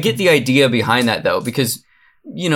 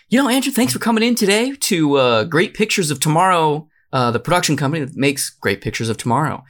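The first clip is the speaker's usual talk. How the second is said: lightly put-on producer pitch voice, pitched up in bursts; pretend studio producer; 3 semitones higher than usual. Producer welcomes Andrew in to pitch a Mothman remake, mock executive patter. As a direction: play a movie executive running a pitch meeting.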